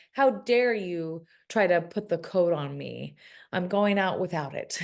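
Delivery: ordinary delivery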